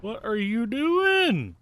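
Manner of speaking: high, slow teasing question; incredulous. Real, not acted. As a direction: drag it out in disbelief. Teasing friend.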